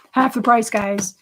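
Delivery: giggling stress on "Half the price"; laughing repeat. Real, not acted.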